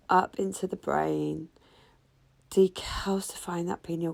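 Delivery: firm breath-hold countdown cues; guided breathwork. Acted. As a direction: push them through the recovery breath. Cues breath holds and recovery.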